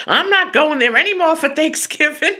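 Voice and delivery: mock huffy father; papa voice. Offended father refusing Thanksgiving at his daughter's, in a papa voice. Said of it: "I do the papa voice".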